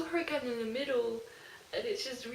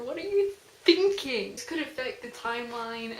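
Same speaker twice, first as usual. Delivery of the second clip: scolding; 6 dB louder than usual. Real, not acted. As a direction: yell at the character in the book. Scolding the character Etta.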